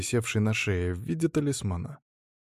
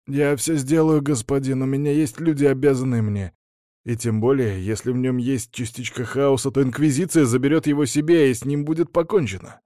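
higher, eager baron; glad; 4 semitones higher, 3 dB louder than usual. Acted. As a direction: answer happily, eager to please. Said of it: "радостно сообщил барон".

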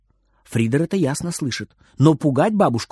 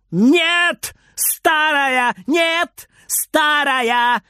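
high, delighted squealing shout; gleeful squeal; 11 semitones higher, much slower than usual. Acted. Boy squeals gleefully at his angry grandma. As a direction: squeal it out, pleased with himself. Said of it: "визжит довольный Фридер".

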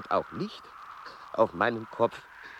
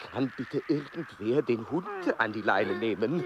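calling out over the dog; 7 semitones lower than usual. Acted. Exasperated plea about the dog.

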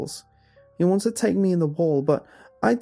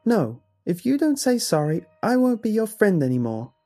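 put-on high, loud indignant child's cry; upset child crying out; 12 semitones higher, 7 dB louder than usual. A narrator's reading. Son argues with someone in the mirror, upset crying out. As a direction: shout it like a small boy falling out. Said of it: "he cried".

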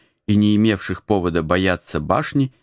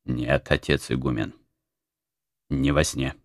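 spiteful; 5 semitones lower, 5 dB quieter than usual. A narrator's reading. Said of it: "злобно отозвался Антоний".

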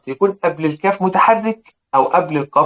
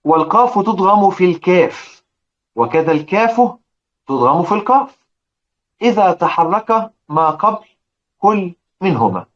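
قراءة المتن؛ إلقاء متن تجويدي ببطء؛ اقرأ النص كمن يتلو متنا؛ تلاوة المتن بتمهل. Shown as a demonstration. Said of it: "يقول".

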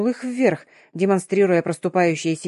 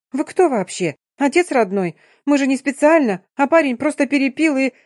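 indignant squeak; 7 semitones higher, 4 dB louder than usual. Acted. Polina's indignant outburst continues.

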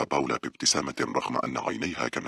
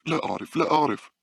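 panicked; 14 semitones higher than usual. A narrator's reading. Frightened friend cannot explain the sound, panicked. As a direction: repeat it with mounting alarm.

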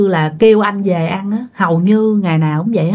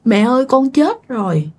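retold crying; 4 semitones higher than usual. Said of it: "khóc quá trời".

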